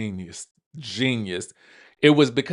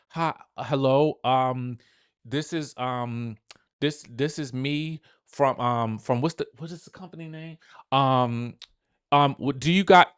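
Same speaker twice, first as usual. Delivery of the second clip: awkward cold caller. Retold or imitated. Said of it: "awkwardly trying to get it out".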